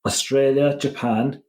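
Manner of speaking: deliberate roll-call, name by name; slow listing. Real, not acted. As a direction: read out each country separately for the listeners. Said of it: "I'm gonna list them slowly".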